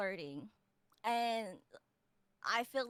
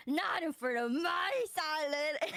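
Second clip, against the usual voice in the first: gremlin mode; 3 semitones higher, slower than usual. Shown as a demonstration. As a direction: stretch it out like a gremlin. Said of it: "You just did it in gremlin mode".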